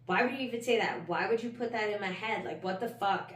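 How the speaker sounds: indignant questioning, replaying anger at the counselor; angry retort. Client retelling anger at her counselor's question, mildly angry. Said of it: "I got fucking angry".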